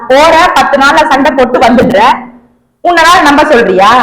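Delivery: loud scolding rant. Acted. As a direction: tear into him for being useless.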